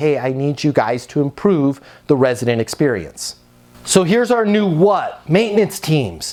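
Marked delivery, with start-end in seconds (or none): none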